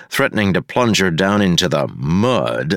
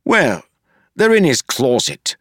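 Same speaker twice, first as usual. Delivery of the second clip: higher, rough-edged complaining sidekick; Wayne, grumbling constable; 7 semitones higher, 3 dB louder than usual. A narrator's reading. Wayne grumbling to Marcy about the sewer. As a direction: whine it like a put-upon partner.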